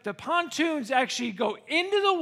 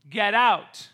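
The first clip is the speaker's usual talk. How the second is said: louder, short command; retold sheriff order; 5 dB louder than usual. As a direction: imitate a sheriff ordering evacuation.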